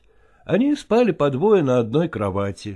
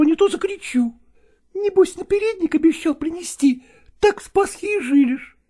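shrill it out like a cranky village cook; cook squabbling; 10 semitones higher than usual. Acted. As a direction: cook squabbling with Ivan over a match. Cook bickering with Ivan.

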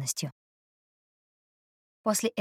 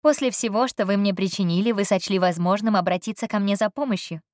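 turning her words back on her with a smile; merry, teasing tone; cheerful remark; 2 semitones higher than usual. Acted. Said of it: "весёлое замечание".

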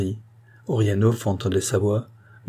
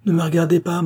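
higher, louder, a flustered exclamation; embarrassed cry; 8 semitones higher, 4 dB louder than usual. A narrator's reading. Guest crying out to the hostess in embarrassment, flustered. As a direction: cry out in mock panic to not be seen. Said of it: "s'écria Orianov".

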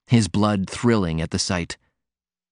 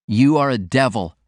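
irritable cry; 4 semitones higher than usual. Acted. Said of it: "Martin cried irritably".

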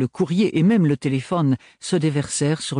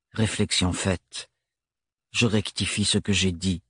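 Thorne grave et monocorde, lent; débit plat et grave de Thorne; voix monocorde; 4 semitones lower than usual. A narrator's reading. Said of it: "d'une voix monocorde". (Thorne corrige Ophélie, d'une voix monocorde)

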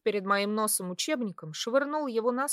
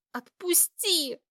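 slow hiss, higher and louder; hissing louder to let go; 8 semitones higher, slower than usual. A narrator's reading. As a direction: hiss it harder at him. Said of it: "громче зашипела я".

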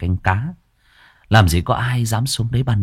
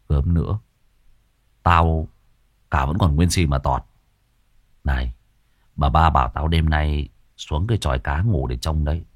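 glum; 5 semitones lower than usual. Acted. Servant telling his friend of the order, low and glum. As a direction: mutter it like a doomed man.

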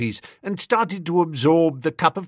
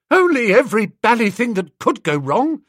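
agitated complaint; 9 semitones higher, 6 dB louder than usual. A narrator's reading. Bingo upset after disaster.

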